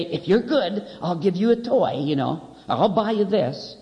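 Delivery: put-on mother coaxing her kid with a toy; pleading mother. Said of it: "she will say".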